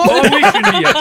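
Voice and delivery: high camp squeal; campy mock voice. Mock campy reply to joke.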